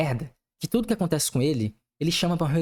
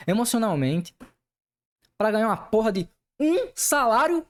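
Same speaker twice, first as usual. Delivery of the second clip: heated rant; 4 semitones higher than usual. Real, not acted. Furious rant about the company.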